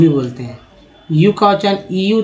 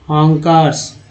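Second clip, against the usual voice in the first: slow repeat; slower than usual. Shown as a demonstration. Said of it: "दो तरह के ईज लिखा जाता है".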